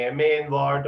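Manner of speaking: a second person cutting in, puzzled; questioning parent voice. Retold or imitated. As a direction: toss it back as a puzzled parent would. Another voice asks in dialogue.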